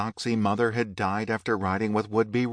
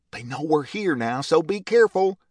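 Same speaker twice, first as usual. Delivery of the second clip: higher, louder sharp warning; sharp call; 7 semitones higher, 5 dB louder than usual. A narrator's reading. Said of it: "another man called out sharply".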